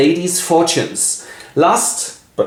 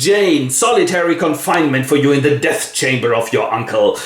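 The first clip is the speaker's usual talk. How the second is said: stern aunt. Acted. Aunt punishes Jane.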